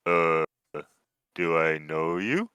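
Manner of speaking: slow, lightly voiced half-orc; puzzled half-orc. Half-orc asking strangers who called him, slow and puzzled. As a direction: draw the question out, unsure. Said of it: "sees you guys and is like".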